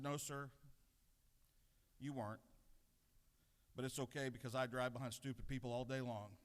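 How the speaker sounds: mildly calm, even reply; a touch of retold cool composure; very calmly. Answering the mocking driver outside Dunkin', lightly calm. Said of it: "very calmly".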